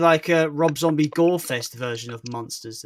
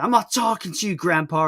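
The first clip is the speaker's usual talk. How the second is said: mock shout; 3 semitones higher, 3 dB louder than usual. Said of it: "He just shouts at him".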